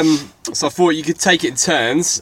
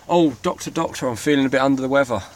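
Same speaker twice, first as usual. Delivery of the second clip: sickly patient. Pretend. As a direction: moan it like a poorly patient. Patient line in the game.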